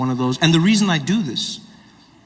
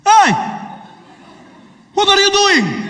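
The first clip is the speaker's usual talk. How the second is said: put-on high, loud Arab-accented confrontation; indignant challenge; 5 dB louder, slower than usual. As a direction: call him out sharply in an Arabic accent. Passenger challenges the bomber.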